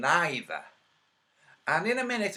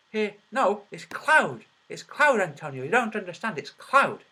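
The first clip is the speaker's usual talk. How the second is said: mock know-it-all; 2 semitones higher than usual. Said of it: "who go".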